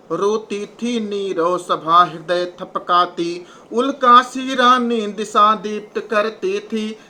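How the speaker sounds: slow, measured recital of the verse line; poem recitation. Acted. Teacher reciting the moonlit-night verse to the class, slow and measured. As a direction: recite it slowly, weighing each word.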